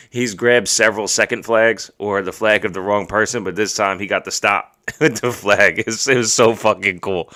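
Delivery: loud, happy telling with laughs breaking in; delighted dad, laughing mid-sentence; laughing, proud. Real, not acted. Proud dad laughing over son's flag.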